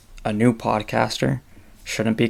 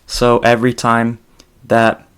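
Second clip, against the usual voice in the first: ordinary talk, nothing marked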